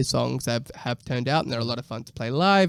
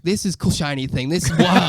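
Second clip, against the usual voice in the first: put-on excitable kid; 4 semitones higher, 5 dB louder than usual. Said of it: "kid with A D H D being like".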